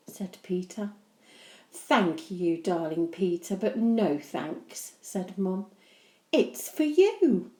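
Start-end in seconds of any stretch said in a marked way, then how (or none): 1.7-7.5 tender. Acted. Mum to Peter.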